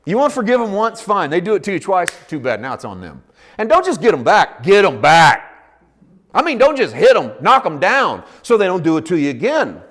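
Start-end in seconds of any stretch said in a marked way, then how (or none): 3.6-5.5 forceful preaching shout. Acted. Preacher voicing the world's revenge.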